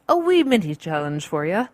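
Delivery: badly faked Irish lilt; horrible Irish accent. Podcaster playfully offering a challenge, mock Irish accent. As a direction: put on a hammy, bad Irish accent. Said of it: "Apologies for that horrible Irish accent".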